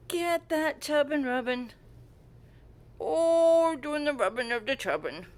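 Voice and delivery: loud, cutesy fussing over a pet; gushing pet talk. Real, not acted. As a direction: gush over your pets, leaning hard on the openings. Fussing over pets during a rub.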